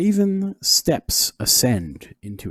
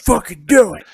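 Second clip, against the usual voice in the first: excited; 11 dB louder than usual. Real, not acted. Hyped reply to battle cry.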